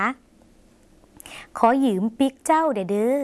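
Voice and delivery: very slow whisper, rising at the end; slow whispered demo. Shown as a demonstration. Teacher models the Lao phrase for viewers, very slow and whispered. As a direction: whisper ขอยืมปิกเจ้าเด้อเด้อ syllable by syllable. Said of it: "หมายถึง".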